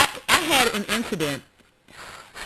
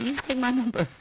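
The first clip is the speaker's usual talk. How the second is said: mock flirty; 5 dB quieter than usual. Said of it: "I said".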